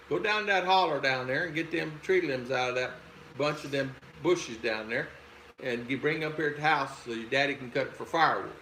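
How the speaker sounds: imitating a Southern mother's country instructions; Southern mama's saying. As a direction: send the kid off in homely Southern dialect. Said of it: "My mother used to say that".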